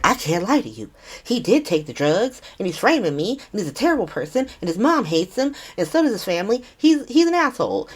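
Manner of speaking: imitated outburst, pitch climbing to the end; mock crash-out. Woman blurting accusations at a press conference, mock crash-out. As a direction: build a retold rant into a high finish. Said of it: "then just crashes the fuck out".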